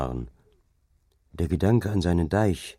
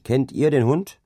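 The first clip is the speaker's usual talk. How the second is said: 1 called question; 7 semitones higher, 4 dB louder than usual. A narrator's reading. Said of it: "rief er".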